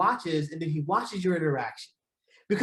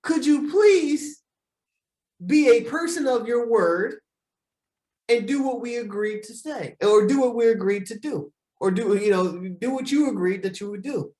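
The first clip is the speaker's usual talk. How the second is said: sample request. Shown as a demonstration. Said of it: "I'm feeling a certain way".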